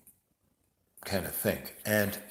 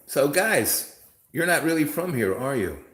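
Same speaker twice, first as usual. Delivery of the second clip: teasing question; 5 semitones higher, 3 dB louder than usual. Retold or imitated. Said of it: "I go".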